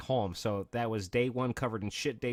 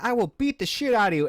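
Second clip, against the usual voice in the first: much higher and louder retold threat; mock dad threat; 11 semitones higher, 7 dB louder than usual. Friend's dad threatening the bully, mock furious. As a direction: menace the kid like a raging dad.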